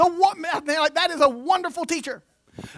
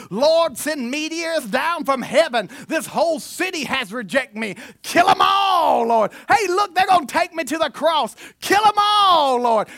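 mock vengeful prayer. Preacher mocking a vengeful prayer, hammed-up shout. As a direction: bellow it like a furious revival prayer. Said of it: "that he prayed".

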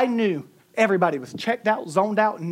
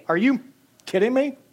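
"are you", pointed silence, then higher "kidding me"; pause for the unsaid cuss; 6 semitones higher, 4 dB louder than usual. Shown as a demonstration. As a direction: leave a gap after "you" where a swear would go. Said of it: "They leave a pause where the cuss word should go".

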